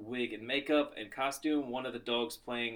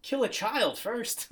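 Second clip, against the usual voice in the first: villain voice; 8 semitones higher, slower than usual. Retold or imitated. Voicing the film's villains.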